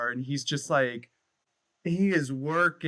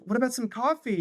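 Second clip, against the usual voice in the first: mock famous singer; 10 semitones higher, faster than usual. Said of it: "she's like".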